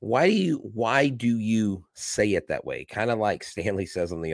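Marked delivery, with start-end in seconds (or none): 0.0-2.8 exasperated quote. Retold or imitated. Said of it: "And I'm like".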